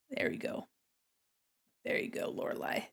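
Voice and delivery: soft voiceless whisper. Real, not acted. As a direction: whisper it gently. Soft whisper to chat member.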